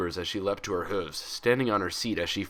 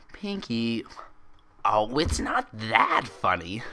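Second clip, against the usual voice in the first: laughing to tears; much slower than usual. A narrator's reading. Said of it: "wiped a tear away".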